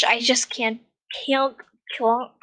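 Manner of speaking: put-on American "can't"; American-accented "can't", tried over and over. Real, not acted. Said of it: "why I'm doing American accent".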